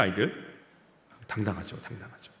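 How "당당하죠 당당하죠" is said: fading to a whisper; hushed repeat. Shown as a demonstration. Preacher repeats the point, dropping to a whisper. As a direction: let the word die away into a whisper. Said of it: "너무 당당하지 않습니까".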